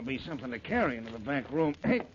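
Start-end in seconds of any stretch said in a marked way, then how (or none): 1.8-2.0 raised voice while carrying a heavy load; calling out. Acted. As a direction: shout for someone to open up. Calling through closed door, hands full.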